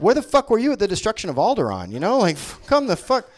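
ordinary talk

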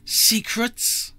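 breathless, horrified question; horrified whisper. A narrator's reading. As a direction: gasp the word in dread.

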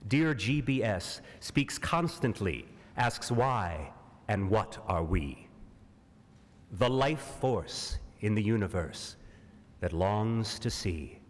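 rhetorical recital, questions lifted and answers falling away; dramatic poem reading. Acted. Actor reads a poem asking why Mars, dramatic recital. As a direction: declaim it in measured, pause-set phrases.

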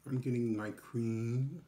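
talking between bites; muffled closed-mouth speech; mouth full, chewing. Real, not acted. Seen 2: Just took a bite; lips closed and chewing behind the raised forkful.

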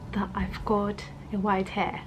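hushed, breathy secret; whispered confession. Real, not acted. Vlogger confessing to viewers a white hair, whispered. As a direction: let the embarrassing news slip out in a whisper.

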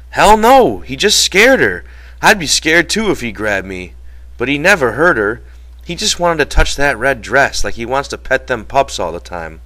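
high, loud denial easing into explanation; George protesting. Acted. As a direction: jump to your friend's defense.

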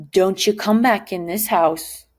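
a mom laying down the law; angry mom. Retold or imitated. Teacher voicing the angry mama locking Richard out. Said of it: "you could tell that mom was angry".

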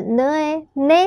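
呢诶 blended into one "ne"; sounding out syllables. Shown as a demonstration. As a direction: sound out 呢 plus 诶, then join them as "ne". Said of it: "它念呢的声音".

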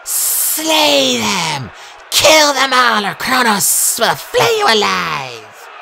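high, drawn-out battle shriek; monster's yell. A narrator's reading. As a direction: yell the order at the troops, loud and high. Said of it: "One of the Draconae yelled".

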